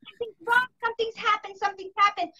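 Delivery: retold alarm. Retelling her alarm that morning.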